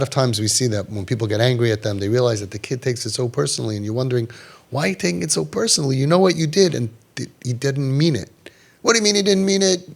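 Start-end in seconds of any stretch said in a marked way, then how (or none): 4.7-8.3 quick, higher indignant parent voice; fast, higher exasperated dad. Retold or imitated. Parent scolding son, voiced. 8.8-9.9 higher, quick incredulous retort; fast high outraged question; indignant disbelief. Retold or imitated. Parent objecting, voiced.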